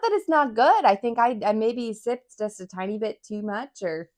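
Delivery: strained after a harsh sip; burning throat. Real, not acted. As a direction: push through a burning throat. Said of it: "It just grabbed me right here".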